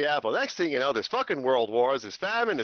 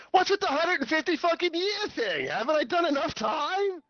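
exasperated Noah; 13 semitones higher than usual. Acted. Noah complaining to God.

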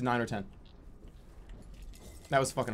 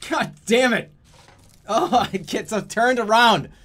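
loud, higher-pitched exasperated cry; frustrated outburst; 5 semitones higher, 6 dB louder than usual. Real, not acted. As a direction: curse the game in real frustration. Frustrated at getting lost in game.

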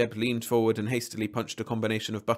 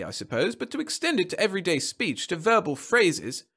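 high-pitched, indignant tirade; shouting; 9 semitones higher, 4 dB louder than usual. A narrator's reading. Client attacking copyright law to supervisor, shouting. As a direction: rail angrily against the swindle. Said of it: "shouted the man".

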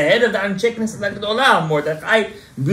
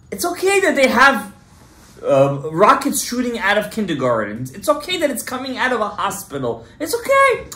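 sarcastic mockery; 3 semitones higher than usual. Sarcastic mock of the other side.

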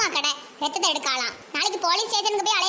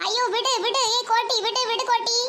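pained pleading; 4 semitones higher than usual. Acted. Being bitten, begging release.

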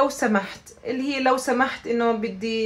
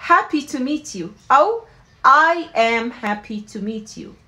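slow, clearly spaced phrase; slow teaching model; 4 dB louder, slower than usual. Shown as a demonstration. Teacher modelling the friendly phrase slowly. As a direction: say it slowly for repetition. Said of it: "So بنحكي".

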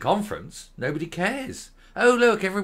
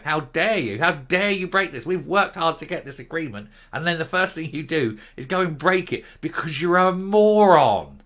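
indignant council voice, building to a louder end; mock outrage; 2 semitones higher, 4 dB louder than usual. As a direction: tell him off for breaking the deal. Voicing angry councils.

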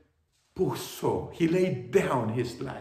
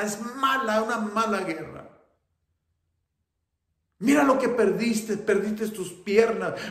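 much higher, loud, fast wailing lament; grieving mother crying; 10 semitones higher, 9 dB louder, faster than usual. Acted. Mother wails over her son's lost limbs, high and loud. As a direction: wail over everything he lost. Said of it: "la madre sentida llorando".

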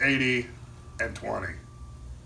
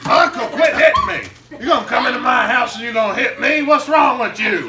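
laughing protest; 10 semitones higher, 6 dB louder than usual. Acted. Nephew hit by his uncle.

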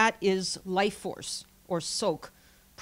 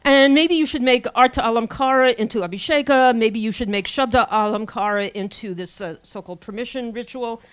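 louder mocking suggestions; sarcastic; 6 dB louder than usual. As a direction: scoff at the idea. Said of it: "he's being very sarcastic".

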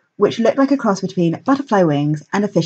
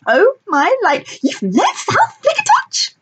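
pixie; slower than usual. A narrator's reading. Star-struck pixie.

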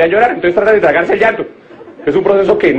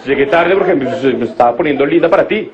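put-on girlfriend's excuse; 4 semitones lower than usual. Girlfriend excusing her lateness, lightly voiced. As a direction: sweetly explain why she's late. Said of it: "Entonces me dijo ella".

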